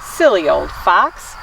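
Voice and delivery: lively picture-book read-aloud; story reading to children. Acted. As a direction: read it to little ones with gentle expression.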